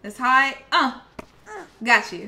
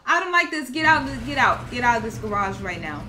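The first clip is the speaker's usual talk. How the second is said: louder frightened get out, get out; scared yelling; 6 dB louder than usual. Real, not acted. Player spooked in the creepy garage, frightened loud yelling. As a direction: urge yourself out, spooked and loud.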